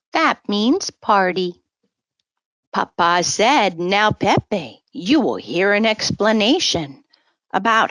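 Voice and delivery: put-on gentle sing-song read-aloud for kids; storybook reading. A narrator's reading. Storyteller reading a rhyming book to children, sing-song. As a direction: read the rhyme to little listeners.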